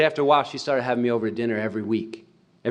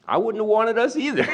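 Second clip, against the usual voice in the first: wry joke; 8 semitones higher than usual. Retold or imitated. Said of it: "And then he smiled and he said".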